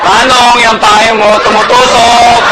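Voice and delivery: hammed-up annoyed woman snapping at the man; mock furious complaint on the train; mock angry complaint. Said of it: "Galit na galit".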